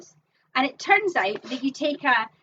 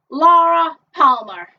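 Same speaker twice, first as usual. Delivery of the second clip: drawn-out announcement; 2 semitones higher, 9 dB louder than usual. Acted. Bingo caller announcing ball name.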